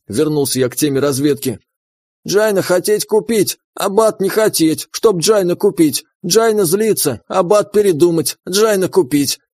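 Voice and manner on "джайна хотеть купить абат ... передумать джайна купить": broken-speech creature. Acted. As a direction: report like a simple little creature. Mole speaks broken Russian.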